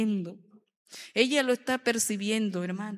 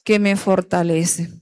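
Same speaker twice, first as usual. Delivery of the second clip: loud declaration; 11 dB louder than usual. Acted. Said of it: "diga conmigo".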